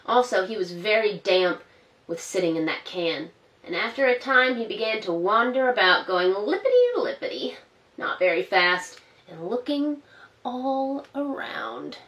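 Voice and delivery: gentle storybook narration for little ones; reading to children. A narrator's reading. Storyteller reading Peter Rabbit to children, gently. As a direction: read it like a bedtime story.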